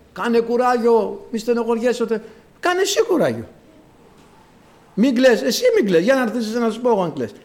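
high-pitched platitude thrown back sharply; acted indignant exchange. Acted consoler and mourner's retort. (αγανακτισμένη μίμηση)

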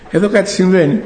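amused, excited announcement; laughing disbelief. Retold or imitated. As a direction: laugh out the discovery to your wife. Calls wife over, laughing in disbelief.

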